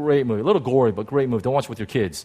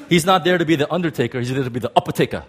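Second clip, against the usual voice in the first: fast, punchy preacher cadence, lightly done; T D Jakes impression; much faster than usual. Preacher tries his T D Jakes impersonation for the congregation. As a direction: rattle it off like T D Jakes. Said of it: "my best T D Jakes impersonation".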